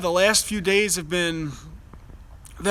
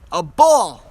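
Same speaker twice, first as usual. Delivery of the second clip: put-on high, loud little-kid cry of "A ball"; toddler voice; 3 semitones higher, 9 dB louder than usual. Dad voicing his son spotting the moon, loud toddler voice. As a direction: play the toddler pointing at the sky. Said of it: "and he says".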